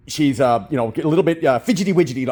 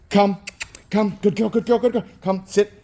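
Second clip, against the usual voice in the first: bright high puppy call; 7 semitones higher than usual. Real, not acted. Trainer calling the puppy over, high and bright. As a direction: call her in with a lifted voice.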